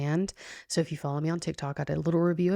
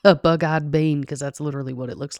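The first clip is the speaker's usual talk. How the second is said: laughing through the words; 5 dB louder than usual. Real, not acted. Telling friends about the bug-eyed puppy, laughing. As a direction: giggle while telling it.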